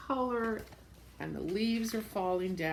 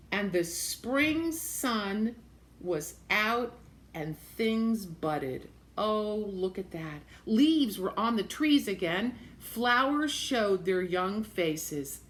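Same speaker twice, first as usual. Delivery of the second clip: slow storybook reading; slow read-aloud narration; reading to children; slower than usual. A narrator's reading. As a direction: let the seasons pass slowly as you read. Reads picture book aloud.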